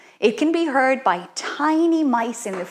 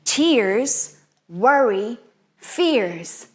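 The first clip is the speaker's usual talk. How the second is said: softly recited spell. Shown as a demonstration. Teacher reciting the bubble spell softly to children. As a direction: recite it gently, letting worries go.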